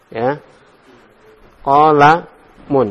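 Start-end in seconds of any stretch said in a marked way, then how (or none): 1.6-2.9 Qalamun drawn out slowly, final -un clear; teacher sounds out Qalamun, nunation on the end; slow model reading. Shown as a demonstration. Teacher models the allowed form, slow careful pronunciation. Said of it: "ini boleh".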